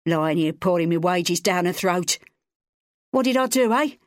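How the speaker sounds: put-on high, strained drunken yell; angry father shouting at the neighbours. A narrator's reading. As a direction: hurl it at the whole street. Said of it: "Wally yelled".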